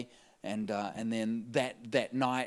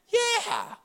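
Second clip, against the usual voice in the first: much higher, louder, exaggerated "Yeah"; emphatic yeah; 7 dB louder than usual. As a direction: fling out a huge, eager yes. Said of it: "I'm like".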